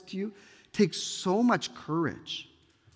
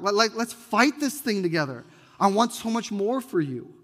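impassioned plea; 4 semitones higher, 4 dB louder than usual. Real, not acted. Preacher pleading with the listener.

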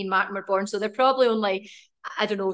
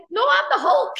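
laughing indignant protest; 13 semitones higher, 5 dB louder than usual. Retold or imitated. Dad insists he's the Hulk.

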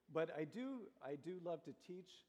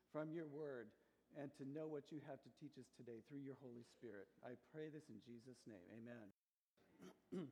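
prayer. Acted. Preacher prays before sermon.

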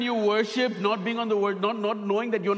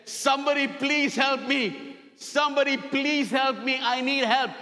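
higher-pitched mock cry for help; retold scream for help; 4 semitones higher than usual. Man hanging off a cliff, mock screaming for help. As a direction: call out a pretend desperate plea, pitched up. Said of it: "Screaming at the top of his voice".

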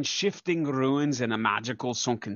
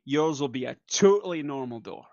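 lightly overdone assurance; unconvincing reassurance. Acted. Promising Gent a normal door, unconvincing reassurance. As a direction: reassure with a little too much stress on TOTALLY. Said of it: "saying it the same way twice".

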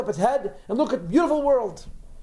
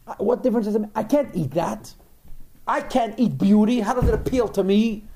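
mildly indignant goat, a little raised; mock protest; 3 semitones higher than usual. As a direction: protest as the baffled, unimpressed goat.

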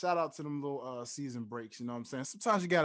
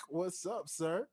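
ordinary talk, nothing marked

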